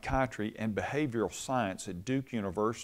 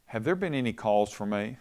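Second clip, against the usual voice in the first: calm. Retold or imitated. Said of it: "her dad calmly said".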